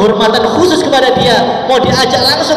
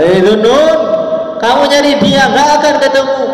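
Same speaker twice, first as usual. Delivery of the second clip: voice without a body; 5 semitones higher than usual. Acted. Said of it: "ada suara tanpa rupa".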